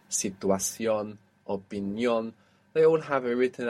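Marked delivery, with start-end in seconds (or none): 0.1-2.3 situación on CIÓN, opinión on NIÓN; final-syllable stress. Shown as a demonstration. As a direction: land on the ends of situación and opinión. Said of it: "have their accent on the end".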